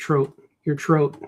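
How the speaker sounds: Chicago "throat" said as "trote"; hard-T Chicago pronunciation; Chicago accent. Shown as a demonstration. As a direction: show how Chicago guys say throat. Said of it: "That's the way Chicago guys say it".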